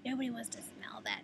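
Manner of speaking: high but hushed mock scolding; retold ranting. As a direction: imitate a stranger's fussy rant, pitched high. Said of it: "ranting and raving".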